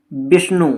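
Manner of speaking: विष्णु with its opening वि pushed; stress on the first syllable of विष्णु. Shown as a demonstration. Teacher giving an example of syllable stress, वि stressed in विष्णु. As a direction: lean on the वि in विष्णु. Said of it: "वी पे धक्का लग रहा है".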